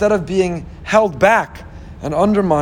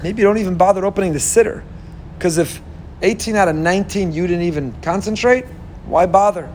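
voice of the evil inclination. Acted. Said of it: "the Yetzer Hara could say".

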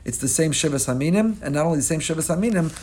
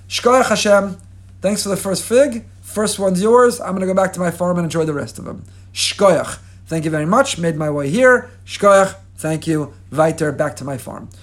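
louder, quick throwaway thanks to God; breezy offhand thanks; 3 semitones higher, 4 dB louder than usual. Acted. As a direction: toss off the thanks and hurry home. Farmer's quick casual thanks acted.

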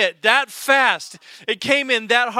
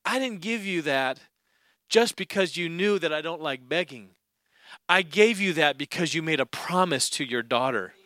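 much softer, lower, gentle God voice; 6 semitones lower, 7 dB quieter than usual. Retold or imitated. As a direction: speak as a quiet loving Father. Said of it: "the Lord says to me".

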